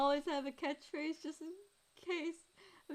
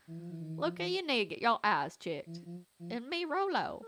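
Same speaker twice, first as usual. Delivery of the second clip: attempted twangy voice; 4 semitones lower, 3 dB louder than usual. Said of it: "That's still not his voice".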